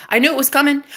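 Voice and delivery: high, gleeful declaration; triumphant. Real, not acted. Woman saying she knew he was coming, triumphant. First of escalating triumphant repeats.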